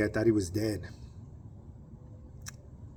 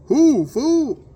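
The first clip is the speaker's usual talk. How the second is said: much higher, loud shout; loud demand; 12 dB louder than usual. Retold or imitated. Speaker shouting at the stranger to learn who he is, loud and high. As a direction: throw the question at him hard.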